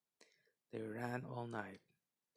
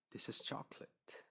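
awed whisper; hushed delight at the chocolate; 3 semitones higher than usual. Acted. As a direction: breathe it in wonder. Gretel marvels at candy house.

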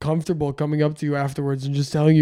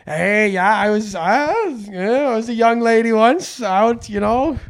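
higher, louder put-on old-lady voice; 6 semitones higher, 5 dB louder than usual. Old lady boasting to comedian about her wild youth, mock voice. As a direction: act a brash old lady reminiscing, pitched up. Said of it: "old ladies who just come up to me and, like".

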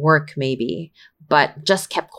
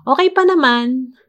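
higher, sing-out mock reply; sarcastic stock answer; 7 semitones higher than usual. Mock range of emotions answering "Kamusta ka?", sarcastic. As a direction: lift the pitch as if it were another emotion. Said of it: "I'm being sarcastic".

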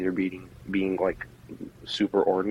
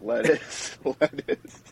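flat deadpan monotone voice; 5 semitones higher, much slower than usual. Retold or imitated. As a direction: say it in a dull monotone. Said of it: "in the most monotone voice".

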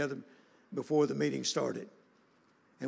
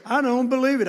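astonished disbelief; 8 semitones higher, 9 dB louder than usual. Retold or imitated. Mother stunned to see preacher.

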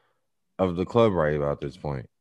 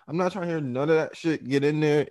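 stern command; 7 semitones higher than usual. Retold or imitated. Ordering friend into car.

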